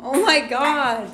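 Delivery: loud, drawn-out astonishment; shocked exclamation. Real, not acted. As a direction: exclaim it slowly and loudly in disbelief. Reacts to a mishap at the table.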